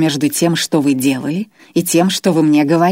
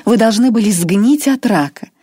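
higher, louder curse; gloating; 6 semitones higher, 5 dB louder than usual. Acted. Irma wishes cancer on Grois, gloating. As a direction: spit out сгнить от рака with relish. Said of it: "с явным удовольствием".

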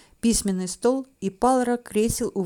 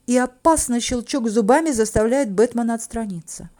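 usual speaking voice

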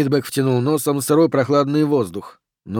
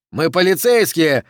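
mildly acted, raised panicky cry; higher, restrained shriek of authority; breaking into shriek; 4 semitones higher, 4 dB louder than usual. Oxy announces police to the figures, voice rising toward a shriek. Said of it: "Голос Окси сорвался на визг".

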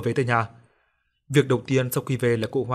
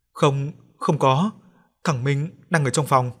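slow, tearful stammer of denial; 2 semitones higher, slower than usual. Acted. Grandmother denies to her husband through tears. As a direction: choke out the words, near tears. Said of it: "giọng rưng rưng".

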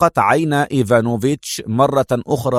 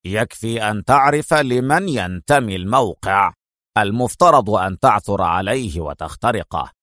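stern; 3 semitones lower than usual. Acted. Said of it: "بنظرة صارمة".

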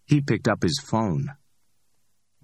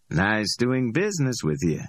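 higher, amused street hustler voice; cocky Ordell; 4 semitones higher than usual. Acted. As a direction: play Ordell, high and pleased with himself. Ordell speaks.

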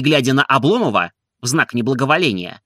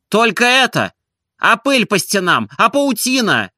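high, louder exasperated complaint; outraged at the cobwebs; indignant outcry; 9 semitones higher, 3 dB louder than usual. A narrator's reading. Барин возмущается. (возмущённый возглас барина)

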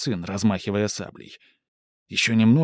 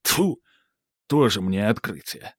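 scornful soldier. Acted. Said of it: "говорит солдат".

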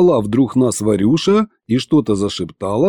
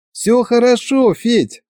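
high-pitched reassuring wife; smiling; 12 semitones higher, slower than usual. A narrator's reading. Wife reassuring worried husband, smiling. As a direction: reassure him with a smile in the voice. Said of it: "улыбнулась она".

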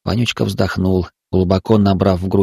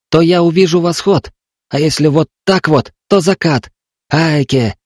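put-on desperate trapped boy; 6 semitones higher than usual. A narrator's reading. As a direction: beg for life and for food.

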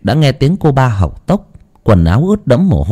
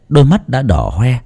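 plain reading voice

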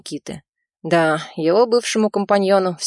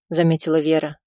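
ordinary delivery

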